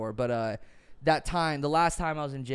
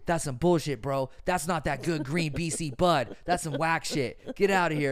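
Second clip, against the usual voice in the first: loud dismissive dude; scornful bro voice; 3 semitones higher, 5 dB louder than usual. Retold or imitated. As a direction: scoff like a cocky bro. Friend voiced rejecting the weed.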